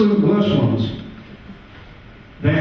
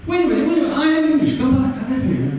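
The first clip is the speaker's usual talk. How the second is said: high, pleading call after them; mock desperate call to the fleeing tourists; calling them back; 10 semitones higher, much faster than usual. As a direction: chase them with your voice.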